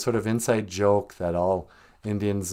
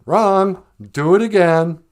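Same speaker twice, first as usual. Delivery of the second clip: harsh mom critic; 5 semitones higher, 6 dB louder, slower than usual. Retold or imitated. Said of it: "she'd be like".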